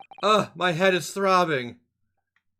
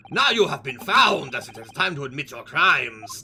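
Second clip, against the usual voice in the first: hammed-up Russian interrogator; bad Russian accent; 5 semitones lower than usual. Sailor demands stowaway admit crimes, bad Russian accent. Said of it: "This is now his voice".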